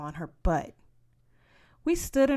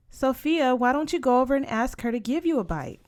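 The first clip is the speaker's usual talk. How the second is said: high, louder brisk mother voice; mother urging; 6 semitones higher, 5 dB louder than usual. A narrator's reading. Mama pushing Sophia toward Berta, brisk and loud. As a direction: push her to go, quick.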